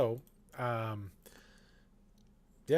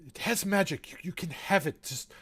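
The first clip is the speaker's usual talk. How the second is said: scared pleading; 5 semitones higher than usual. Acted. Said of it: "he's like".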